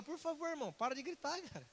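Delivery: hushed acted request; soft plea. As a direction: quietly beg someone to tone it down. Begging loud talker to stop.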